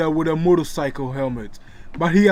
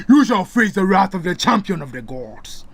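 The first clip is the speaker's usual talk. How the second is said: menacing; 3 semitones higher, 5 dB louder than usual. Acted. Hero threatens in his sleep.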